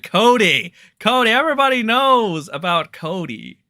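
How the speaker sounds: loud, high mock-excited shout; sarcastic hype yell for chat. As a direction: hype him up like a ringside announcer.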